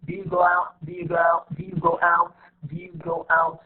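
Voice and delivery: "Do you" run together before "go out"; reduced connected speech. Shown as a demonstration. Teacher drilling pronunciation for students, "Do you" reduced in the question. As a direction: link "Do you go out" smoothly, "Do you" shortened. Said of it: "this is how we pronounce it".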